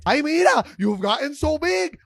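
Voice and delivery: put-on a loud aunt marvelling at the kids; gushing aunt. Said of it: "Every year it's the same thing".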